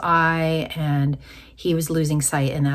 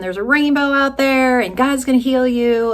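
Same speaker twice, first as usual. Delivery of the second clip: high, louder, eager announcement; excited good news; 7 semitones higher, 5 dB louder than usual. Retold or imitated. Wife retelling how she ran upstairs to her husband with news, excited. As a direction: relive rushing in with joyful news.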